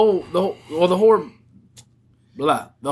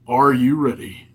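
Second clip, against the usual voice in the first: announcer voice; 2 semitones lower than usual. Acted. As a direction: announce it like a ringmaster. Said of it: "Take two".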